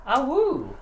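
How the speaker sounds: high loud wolf howl. Pretend. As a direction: howl it like a werewolf. Closing werewolf howl.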